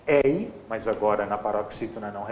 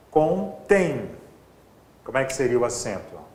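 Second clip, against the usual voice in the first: ordinary talk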